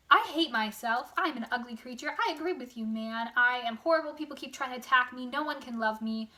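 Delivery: hammed-up lament, leaning hard on key words; mock self-loathing. Monster lamenting to Frankenstein, mock self-loathing. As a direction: play a wretched creature pouring out complaints.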